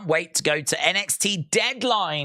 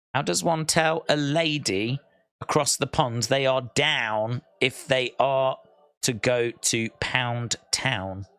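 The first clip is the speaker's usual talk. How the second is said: slow deliberate reread; 5 semitones lower than usual. Shown as a demonstration.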